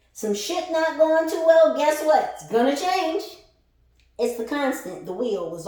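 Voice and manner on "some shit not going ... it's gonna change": high and loud, driving the point home; a loud, high-pitched reading-style proclamation; emphatic loud call. Real, not acted. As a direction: proclaim it to the crowd. Hammering home a point to viewers.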